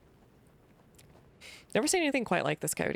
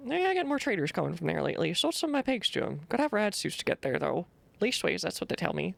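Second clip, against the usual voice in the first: put-on grumpy old farmer; 2 semitones higher than usual. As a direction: warn strangers off your land. Voices the farmer NPC.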